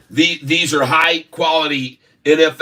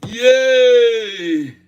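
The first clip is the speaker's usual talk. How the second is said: cheering; 8 semitones higher, much slower than usual. Real, not acted. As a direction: cheer with delight. Celebrating the reveal.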